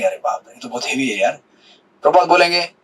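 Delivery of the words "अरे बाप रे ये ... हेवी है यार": lightly acted low, soft complaint; imagined listener's dismay. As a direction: mimic a daunted listener under your breath. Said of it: "आप बोलेंगे".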